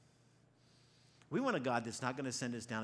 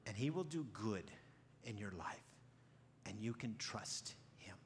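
tender reassurance; slower than usual. Acted. Preacher models trusting inner voice.

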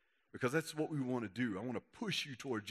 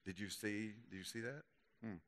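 hushed mock gossip; gossipy; 2 semitones lower, 10 dB quieter than usual. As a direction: imitate a gossip keeping it secret. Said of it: "little gossipy thing going on".

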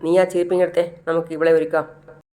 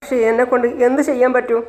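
higher, tearful helpless lament; breaking down over her; imitated sobbing, pitched up; 5 semitones higher than usual. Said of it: "പൊട്ടി പൊട്ടി കരയാണ്".

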